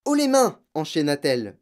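high, loud order; commanding shout. A narrator's reading. Matilda bursting in on supposed burglars, shouting. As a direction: order intruders to surrender.

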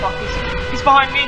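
high breathless cry turning loud; scared shout while fleeing; panicked yelp. Real, not acted. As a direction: blurt it in real fright. Chased by monster.

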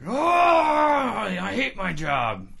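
high wailing exaggerated whine; whiny Doctor Klein. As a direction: wail like a frustrated doctor. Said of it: "That's how I'm imagining, Doctor Klein".

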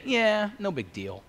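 high, drawn-out careless shrug; mock dismissive. Careless hearer answering Paul, mock dismissive.

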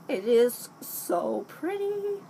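slow, rising high-pitched coo; gushing admiration. Real, not acted. Vlogger admiring the powder, gushing high coo. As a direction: stretch it out high, adoring the sight.

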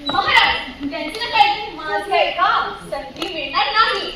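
mock crying. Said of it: "रडू नका".

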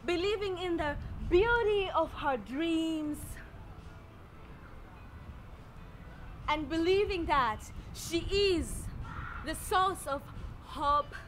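measured lines with long dramatic pauses; poetic recitation. Acted. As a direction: recite it like a spoken-word self-portrait, phrase by phrase. Recites poetic third-person self-portrait.

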